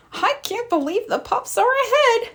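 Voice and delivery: thrilled mayor cheering from the sidelines; excited cheer. Acted. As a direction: cheer the team on. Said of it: "cheered Mayor Goodway".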